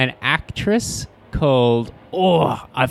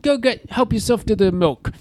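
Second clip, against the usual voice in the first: put-on Jewish accent; 10 semitones higher than usual. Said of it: "quite a Jewish voice".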